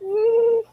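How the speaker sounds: high, tight-lipped "mm"; imitated suppressed giggle; stifled laugh hum. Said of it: "I'm trying not to laugh".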